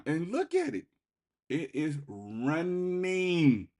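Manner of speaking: high, loud bursts of real excitement; can't contain the thrill of the rally; excited. Real, not acted. Trader thrilled at his stock breaking out, high excited exclamations. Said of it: "I'm getting a little excited right now".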